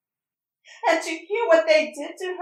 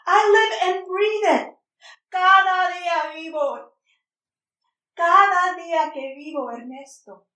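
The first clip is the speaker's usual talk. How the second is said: anguished retort; 3 semitones higher than usual. Acted. Mother defends herself, anguished.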